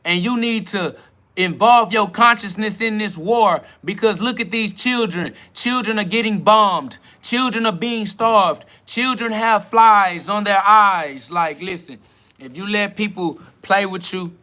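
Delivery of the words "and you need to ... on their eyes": mock TV appeal. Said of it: "put children on the T V and say".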